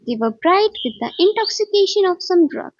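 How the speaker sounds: plain reading voice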